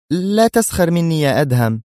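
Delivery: a touch of exasperation; annoyed. Acted. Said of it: "تقول في حنق". (بحنق خفيف)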